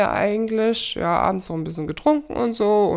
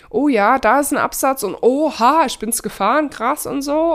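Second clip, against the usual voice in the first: excited; 5 semitones higher, 3 dB louder than usual. Retold or imitated. Retells thrill on rough trail.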